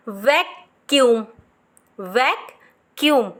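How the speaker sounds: वैक्यूम drawn out slowly; slow model word. Shown as a demonstration. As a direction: say it slowly for them to copy. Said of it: "किस में ये वाली आपको situation". (धीरे से model करो)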